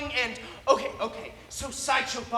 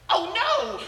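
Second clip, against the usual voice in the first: high, louder mock-panicked cry; cartoon alarm; 10 semitones higher, 6 dB louder than usual. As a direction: escalate the comic alarm, pitched high. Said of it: "So then he says".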